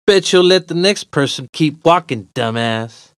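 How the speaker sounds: high, loud parting jeer; taunting yell. Acted. Winners leave the beaten stranger, yelling taunts. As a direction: yell an insult while leaving.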